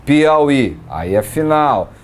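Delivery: normal talking voice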